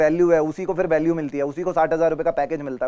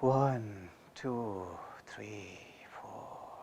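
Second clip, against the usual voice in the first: fading count while breathing out; 7 semitones lower, 20 dB quieter, much slower than usual. Shown as a demonstration. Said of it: "चार second release". (सांस छोड़ते हुए धीमी होती गिनती)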